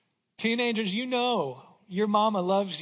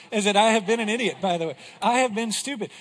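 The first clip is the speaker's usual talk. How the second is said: louder and fast; emphatic; 6 dB louder, faster than usual. Real, not acted. Preacher admitting his fault loudly to the congregation. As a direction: punch it out, owning it.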